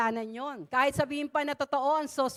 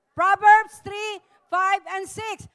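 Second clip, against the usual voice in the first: slow, loud, emphatic recitation; loud with power; 6 semitones higher, 10 dB louder, slower than usual. Shown as a demonstration. Preacher leading the congregation in a loud recitation. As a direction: belt it out slowly with power. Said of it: "Lakasan natin. May power".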